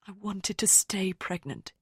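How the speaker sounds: slow, intense confession. A narrator's reading. Rosamond confesses to narrator, slow and intense. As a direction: press every word out slowly. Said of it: "her voice intense".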